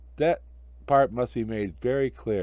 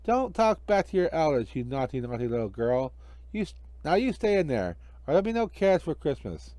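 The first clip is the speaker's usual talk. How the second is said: huffy magician, a bit higher; scolding magician; 4 semitones higher than usual. Acted. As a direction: tell off the naughty girl.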